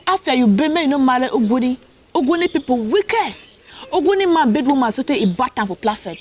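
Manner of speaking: high, animated Batibo landlady; Batibo woman accent. Retold or imitated. Landlady rants about Ogoni people, high Batibo accent. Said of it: "that's how the accent started".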